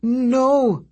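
very high harpy cry of protest; stuttered cry. A narrator's reading. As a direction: catch on the N, then wail. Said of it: "she stuttered".

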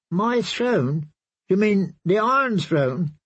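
uneasy little princess asking her knight; lightly voiced, puzzled young girl; confused child. Myrcella voiced in the story.

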